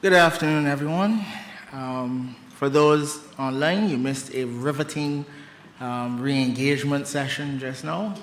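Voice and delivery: slightly out of breath, catching air; winded after rushing to the podium. Real, not acted. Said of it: "forgive me if I'm a little out of breath".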